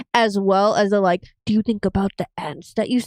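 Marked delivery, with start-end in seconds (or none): 1.5-3.1 classic super-villain monologuing voice. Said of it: "it's the monologuing".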